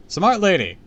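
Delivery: high, loud, hammed-up character voice; flustered teacher. A narrator's reading. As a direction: play the teacher excusing herself awkwardly. Voices teacher making a nervous exit.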